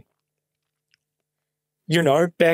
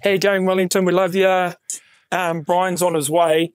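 a hint of frontman banter to the crowd; stage banter; 3 semitones higher than usual. Young singer stalling the crowd, mild frontman banter. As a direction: hype up the Wellington crowd lightly. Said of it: "I was just going".

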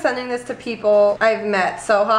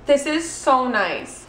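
delighted gasp; 3 semitones higher, much slower than usual. Real, not acted.

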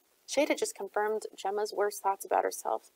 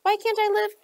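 high, louder cry with a catch; 13 semitones higher, 6 dB louder than usual. A narrator's reading. Gemma begging Shade to let her come, voice breaking. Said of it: "Her voice caught".

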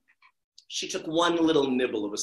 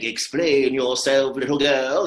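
slow, louder command; stern caterpillar; 3 semitones lower, 6 dB louder, slower than usual. Acted. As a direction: demand it slowly like a lordly caterpillar. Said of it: "the caterpillar is like".

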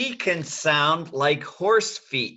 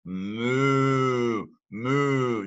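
cow moo. Shown as a demonstration. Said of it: "The first one's the cow".

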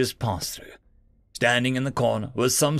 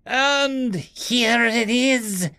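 chuckling; 9 semitones higher, much slower than usual. A narrator's reading. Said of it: "the voice chuckled".

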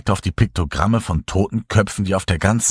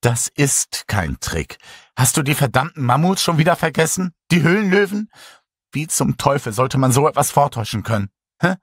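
pleading; 6 semitones higher than usual. A narrator's reading. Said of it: "flehte Natalia".

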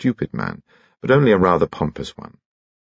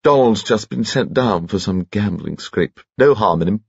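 put-on chirpy piping little old gentleman, much higher; high-pitched Bunchy; 4 semitones higher than usual. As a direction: pipe cheerfully like a tiny jolly gent.

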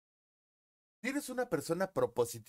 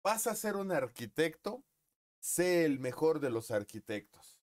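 higher, emphatic grandfather; grandfather's advice; 3 semitones higher than usual. Retold or imitated. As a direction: preach it like grandpa. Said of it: "como me lo dijo mi abuelo".

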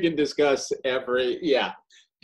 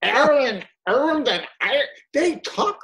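much higher mock Baltimore "Aaron"; imitating Baltimore; 12 semitones higher, 3 dB louder than usual. Friend mimics Baltimore man, mock accent. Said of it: "was also going".

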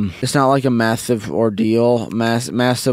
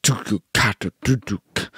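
mouth drum beat; 4 dB quieter than usual. Retold or imitated. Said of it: "standard rock drummer kind of beat".

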